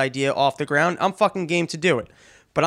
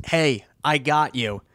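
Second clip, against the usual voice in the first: lazy empty promise; slower than usual. Retold or imitated. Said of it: "when someone goes".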